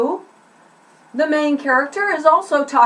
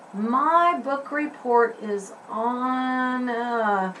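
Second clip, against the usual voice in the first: practicing a recitation; 5 dB quieter, much slower than usual. Shown as a demonstration. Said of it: "I have to practice".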